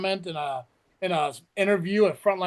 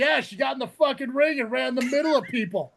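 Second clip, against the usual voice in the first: raised, annoyed rant; exasperated retort; 3 semitones higher than usual. Retold or imitated. Host retelling his annoyed reply to fans. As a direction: fire back at the fans. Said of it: "I'm like".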